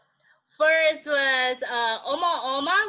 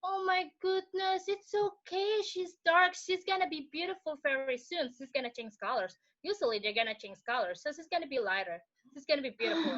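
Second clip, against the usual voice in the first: singsong high mock comfort, softer; imitating consoling relatives; 3 semitones higher, 6 dB quieter than usual. Relatives consoling her over the dark baby, singsong mock comfort. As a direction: croon it like pitying aunties. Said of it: "everybody were saying".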